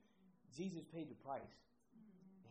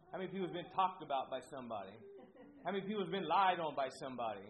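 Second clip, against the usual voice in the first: building emphasis; 2 semitones higher, 6 dB louder, faster than usual. Real, not acted. Rising rhetorical questions.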